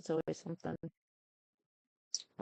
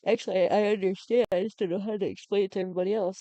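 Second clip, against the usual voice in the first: sudden outburst; 4 semitones higher, 9 dB louder, faster than usual. Real, not acted. Sudden outburst correcting herself.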